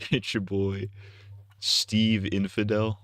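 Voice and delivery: new character intro. Pretend. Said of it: "That's a new character".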